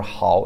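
"hao" in Mandarin third tone, froggy o ending. Shown as a demonstration. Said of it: "in the third tone".

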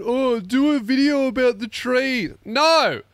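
ranting at people who want a tree video; mock rant. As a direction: yell it back, exasperated. Mocking people then ranting back.

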